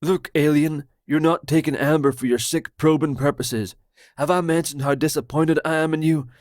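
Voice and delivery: paranoid Roger. Acted. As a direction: blurt it out like a betrayed friend.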